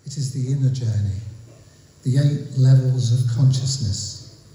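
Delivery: measured poem recital with pauses between phrases; deliberate spoken verse, drawing out key words; poetry reading. Acted. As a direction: read it line by line, letting each image land. Reads own poem aloud.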